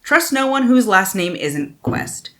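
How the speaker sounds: lifted, animated back-cover reading; expressive book-jacket narration; dramatic blurb read. Real, not acted. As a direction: read the blurb out with storyteller emphasis.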